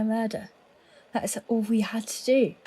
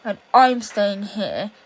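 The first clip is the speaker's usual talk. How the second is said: defiant; 6 dB louder than usual. Acted. Defiant final stand.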